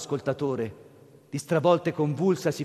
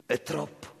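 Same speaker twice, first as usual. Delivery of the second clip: sobbing; 6 dB quieter than usual. Acted. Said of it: "disse singhiozzando".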